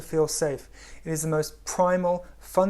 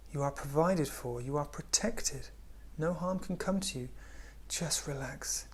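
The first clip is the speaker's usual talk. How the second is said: soft, reassuring, fading to a whisper; tender heart-voice, softer and softer; soothing inner voice; 7 dB quieter than usual. Acted. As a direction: comfort the listener like a gentle inner voice. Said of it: "the voice in your heart says".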